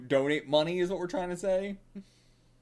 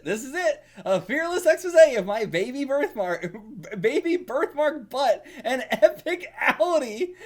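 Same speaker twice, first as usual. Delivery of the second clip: proud presentation, laughing; 5 semitones higher, 4 dB louder than usual. Acted. Proudly presents his mooning act.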